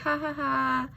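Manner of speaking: token 'ha ha ha' laugh; mock laugh. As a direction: imitate laughing it off. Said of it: "I would just laugh it off".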